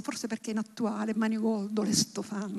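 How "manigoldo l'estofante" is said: put-on quiet, fond repetition of the old words; a soft, relishing murmur; savoring softly. Shown as a demonstration. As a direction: roll Manigoldo and l'estofante gently, much softer. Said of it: "hanno quel suono bellissimo".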